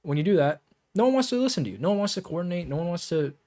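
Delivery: animated coaching voice showing the fix; lively contrast. Shown as a demonstration. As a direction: pump energy into every phrase. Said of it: "sounds boring".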